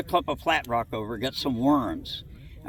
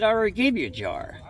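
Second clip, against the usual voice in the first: mom's reply; 6 semitones higher than usual. Retold or imitated. Mom voiced in story.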